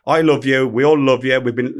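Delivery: retold reassurance, pressed home; lightly acted buttering-up; coaxing. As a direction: coax him like a sulking child. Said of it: "like, coaxing a child around".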